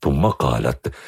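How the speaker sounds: ordinary delivery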